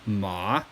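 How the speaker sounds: low dipping Mandarin tone on Ma; third tone ma. Shown as a demonstration. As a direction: drop Ma down further. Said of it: "you gotta drop down a little bit more".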